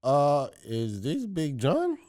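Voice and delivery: slow, badly faked Indian accent; hesitant caller with an attempted Indian accent. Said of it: "went straight to the Indian accent".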